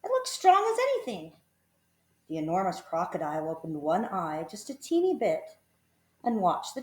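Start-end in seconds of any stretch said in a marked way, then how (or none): 0.0-1.3 put-on high, breezy child voice; confident children. A narrator's reading. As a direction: reassure the girl lightly. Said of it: "the others said".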